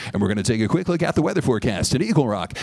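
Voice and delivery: quick, low radio patter; radio announcer. Acted. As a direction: rattle it off like a weather forecast. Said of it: "God sounds like a radio announcer".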